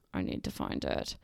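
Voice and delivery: goofy low-voiced repeat; mock deep voice. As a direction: drop the pitch way down for a joke. Repeats it, searching.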